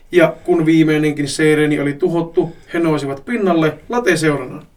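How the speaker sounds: animated read-aloud storytelling; story narration. A narrator's reading. Reading a listener's absurd adventure story, story narration. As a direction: narrate a silly action tale with relish.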